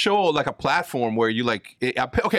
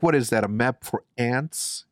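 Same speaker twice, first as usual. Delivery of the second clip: Zoolander quote. Retold or imitated. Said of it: "I'm like".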